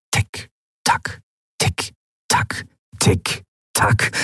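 whispered tick-tock; clock ticking. Acted. (geflüstertes Ticken der Standuhr)

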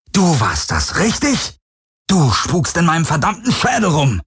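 rising, angry accusation ending in a yell; furious, pointing the blame; accusing shout. A narrator's reading. Garland accusing the Helix of haunting his head, shouting.

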